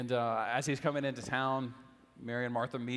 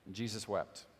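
soft reading; 4 semitones lower, 4 dB quieter than usual. Acted. Preacher reading the shortest verse to the congregation, hushed. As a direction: lower and softer, almost hushed. Famous verse read softly.

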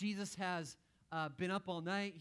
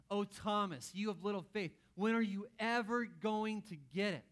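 louder, weary scolding; exasperated sigh; 3 semitones higher, 5 dB louder than usual. Acted. Mock Jesus scolding Thomas for little faith, exasperated and louder. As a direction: heave it out like a let-down teacher. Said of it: "He sighs heavily".

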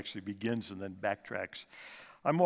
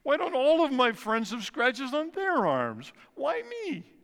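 put-on high, loud child's protest to his papa; upset child protest; 13 semitones higher, 5 dB louder, slower than usual. Boy protesting to his father, high and loud. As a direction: cry out like a hurt seven-year-old. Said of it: "slamming my hand down and saying".

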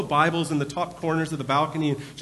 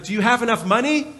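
mild mock yell; 6 semitones higher, 3 dB louder than usual. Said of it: "he kinda yelled over to them".

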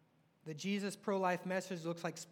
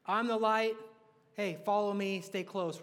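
louder, urgent invitation to follow; preacher voicing Jesus to followers, louder; rallying call; 2 semitones higher, 6 dB louder than usual. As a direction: beckon them on with energy. Acting Jesus calling followers again.

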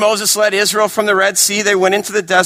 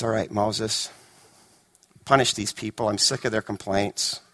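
mock stern God; 10 semitones lower, 9 dB quieter than usual. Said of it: "So God says".

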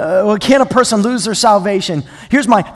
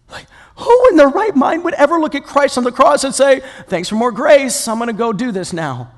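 mildly incredulous rhetorical question; a touch of exasperated disbelief; 5 semitones higher than usual. Acted. Preacher as Paul questioning those who abuse grace, mildly exasperated. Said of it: "He's just exasperated".

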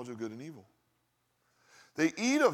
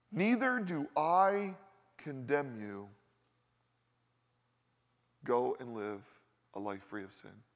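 slow gentle forgiveness; 3 semitones lower, slower than usual. Acted. Jesus forgiving the woman, slowly.

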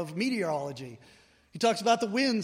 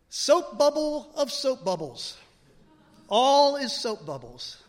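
grand pronouncement; 5 semitones higher, 7 dB louder, slower than usual. Retold or imitated. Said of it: "He translated it this way".

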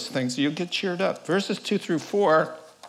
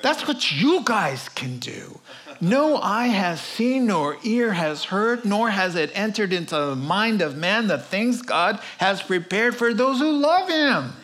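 voice of God; 4 semitones higher than usual. Acted. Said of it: "And God goes".

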